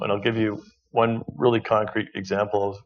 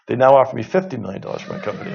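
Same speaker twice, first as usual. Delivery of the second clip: laughing quote; faster than usual. Retold or imitated. Retelling a surprising buyout offer.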